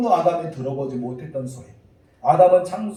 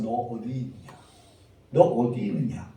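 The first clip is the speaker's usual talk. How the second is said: low, softened questioning; gentle question; 4 semitones lower, 3 dB quieter than usual. Retold or imitated. God asking the one who strayed, gentle low voice. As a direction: ask it quietly and tenderly. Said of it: "이렇게 물으십니다".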